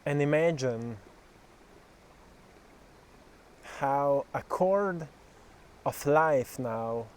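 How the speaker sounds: measured meditation guidance, phrase by phrase; slow, deliberate guiding voice, firmly projected; guided meditation. Acted. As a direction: lead a visualisation with long pauses. Leads a guided visualisation.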